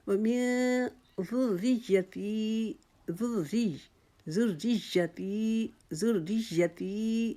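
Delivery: ذُرِّيَّتِي slow, the ر with zer blended into the doubled ي; recitation. Shown as a demonstration. Teacher reciting ذُرِّيَّتِي slowly. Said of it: "یا کی شد کے ساتھ ملا کے پڑھنا".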